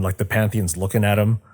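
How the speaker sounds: ordinary talk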